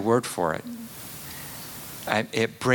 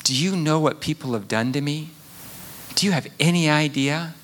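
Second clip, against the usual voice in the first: high, fast, wounded protest; indignant complaint; 5 semitones higher, faster than usual. Retold or imitated. Preacher voicing an abused person, fast and indignant. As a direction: voice the hurt person demanding sympathy. Voicing angry wronged people.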